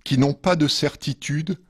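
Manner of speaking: measured poetry reading with pauses between verses; poem reading. Acted. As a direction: read each verse line apart, letting it settle. Reads second poem after musical break. (lecture de poème posée)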